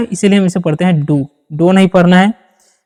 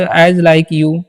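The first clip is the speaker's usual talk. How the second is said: slow dictation; 3 semitones lower, much slower than usual. Shown as a demonstration. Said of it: "इस तरीके से बोल सकते हैं".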